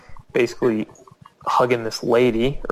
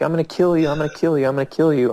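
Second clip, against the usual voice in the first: higher-pitched repeated threat, easing off; mock death threat; 5 semitones higher, much faster than usual. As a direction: imitate a worked-up attacker, lightly. Translating the knifeman's threat.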